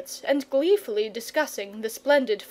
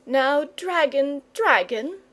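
imploring; 4 semitones higher, slower than usual. Acted. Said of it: "said the boy imploringly".

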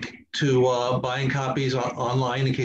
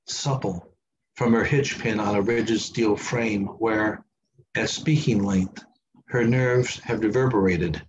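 measured, slower reading in short phrases; lower, deliberate poem delivery; poetry reading; 3 semitones lower, slower than usual. Acted. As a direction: read the poem line by line, pausing between images. Reads third poem aloud.

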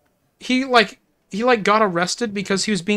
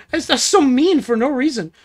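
loud, high protest through laughter; real laughing outrage; amused indignation; 5 semitones higher, 5 dB louder than usual. Real, not acted. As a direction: protest the meanness, voice jumping up, laughing. Laughing at a mean chat joke.

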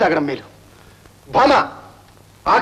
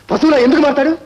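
higher and louder, snapping back; angry retort; 5 semitones higher, 4 dB louder than usual. Acted. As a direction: throw the insult back at her hard. Angry quarrel with mother-in-law. (కోపంగా గట్టిగా ఎదురు సమాధానం)

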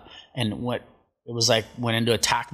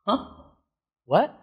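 pissed off shark; 9 semitones higher than usual. Retold or imitated. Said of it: "like a pissed off dog".

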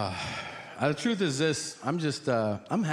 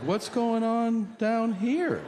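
high, slow, theatrical gasp at the sight; mock dramatic nurse; 9 semitones higher, much slower than usual. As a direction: play up the shocked nurse. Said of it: "They're like".

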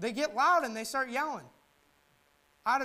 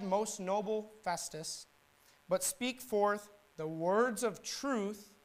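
slow, measured courtesy; respectful; much slower than usual. Acted. Paul answering Festus with slow respect. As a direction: answer the ruler gently and deliberately. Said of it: "He's respectful".

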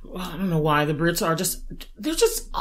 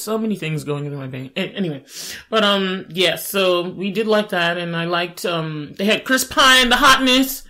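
usual speaking voice

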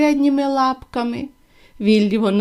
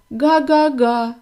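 mild sobbing honk; slower than usual. Acted. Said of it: "ридав Віллі".

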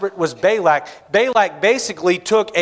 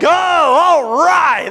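mock delight; 9 semitones higher, 5 dB louder, much slower than usual. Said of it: "Balaam's like".

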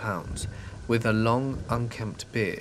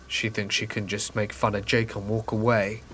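grumbling man. Retold or imitated. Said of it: "I heard him grumble".

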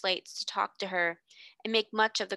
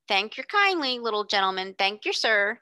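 mock beggar girl. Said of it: "She would have said".

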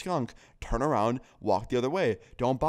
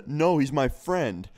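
loud mock laugh into a high, drawn-out reply; imitated drunken laughing; 5 semitones higher, 7 dB louder, much slower than usual. Drunk guest refusing to drop his skunk, laughing imitation. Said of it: "the guy's just laughing".

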